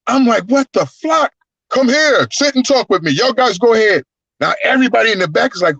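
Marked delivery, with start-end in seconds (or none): 0.1-4.0 lightly voiced giant. Andre voiced in retold story.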